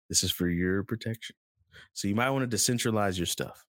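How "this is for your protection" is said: repeated lower and darker, a light mobster menace; a touch of a mobster leaning in; mock mafia. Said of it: "that good old mafia".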